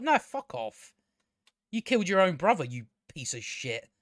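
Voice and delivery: mock blunt telling-off, no airs; half-hearted blunt insult; blunt rude retort. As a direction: snap it back like a rude comeback, trailing off. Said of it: "but it's like".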